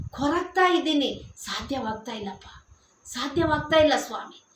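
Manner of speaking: tearful humble prayer. Pretend. Preacher modelling a weary child's prayer to Jesus, soft and pleading. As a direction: murmur a broken-hearted prayer. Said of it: "ಅವರ ಹತ್ರ".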